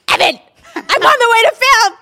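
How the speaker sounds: high, loud, sing-song fake sweetness; mock sweet voice. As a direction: put on a sugary phone voice. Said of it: "She's like".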